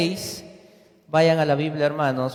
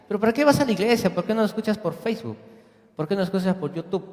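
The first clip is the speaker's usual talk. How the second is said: quick, higher, needling questions; mocking questioner; 5 semitones higher, much faster than usual. Preacher mimics a skeptic questioning church attendance, quick mocking voice. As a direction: poke fun at going to church.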